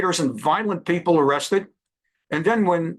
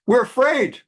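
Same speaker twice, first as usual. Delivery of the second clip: much higher mocking squeak of fear; mock scared student; 7 semitones higher than usual. Mocking Harvard Jewish students interviewed at protests, high mock fear. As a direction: ridicule the fear with a high, tiny voice. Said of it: "interviewed saying".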